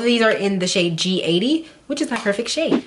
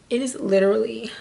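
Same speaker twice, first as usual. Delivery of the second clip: whisper; 3 semitones higher than usual. Acted. Whispered build-up.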